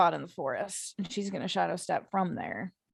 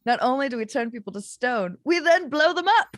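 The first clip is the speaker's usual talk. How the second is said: excited; 4 semitones higher, 5 dB louder than usual. Acted. Gleeful Gorgon pitch.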